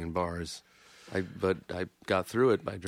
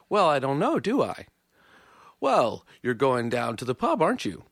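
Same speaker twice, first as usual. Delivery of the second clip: mock British question tag; 4 semitones higher, 4 dB louder than usual. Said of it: "They're like".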